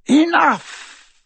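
sharp loud high cry of enough; loud command. Acted. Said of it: "said Voldemort".

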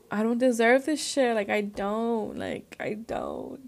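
mildly exasperated plea, stretched at the end; retold frustration. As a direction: retell it frustrated, drawing out "don't". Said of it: "I'm just frustrated because".

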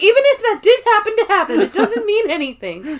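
high, fast, laughing babble; rushed flustered excuse. Retold or imitated. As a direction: rattle it off high and fast, squirming. Angela rushing her excuse.

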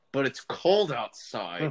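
slow, laughing mock crooner line; creepy suitor. Quoting the song's creepy suitor, slow laughing mock croon. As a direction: drawl it like a pushy date who won't let her go. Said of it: "and he's like".

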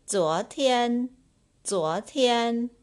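zuo tian said high and loud, twice; model pronunciation. Shown as a demonstration.

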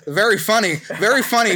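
deadpan "very funny" to a friend's pun; sarcastic. Real, not acted. Host groaning sarcastically at the wildfire pun.

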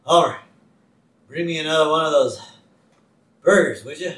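heavy-breathing cop voice. Retold or imitated. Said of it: "breathing heavy".

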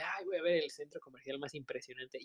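soft mock gushing tourist; a hint of a dazzled shopper, softly. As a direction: lightly parody a gushing tourist. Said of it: "No sería como de".

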